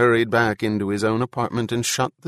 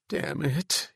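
higher, understated despair; 5 semitones higher, 4 dB quieter than usual. A narrator's reading. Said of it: "he breathed in despair".

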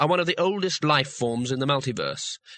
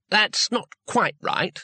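slow and careful, higher; 7 semitones higher, slower than usual. A narrator's reading. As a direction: tread gently around the correction. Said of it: "said Two Flower carefully".

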